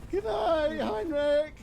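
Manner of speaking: very high, loud silly voice; high squeaky voice. Pretend. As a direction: squeak out a goodnight.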